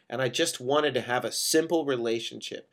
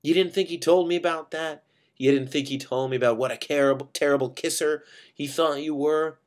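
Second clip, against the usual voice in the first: louder, pressing rhetorical question; accusing; 4 semitones higher, 4 dB louder than usual. Acted. Dave taunts Judy about her kissing, accusing. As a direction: drive the accusation home. Acted accusation in lovers' quarrel.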